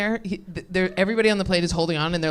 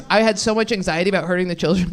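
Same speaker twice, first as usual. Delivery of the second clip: normal talking voice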